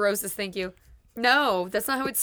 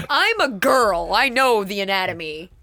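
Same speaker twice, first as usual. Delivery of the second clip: emphatic loud; 5 dB louder than usual. Real, not acted. Emphatic louder declaration.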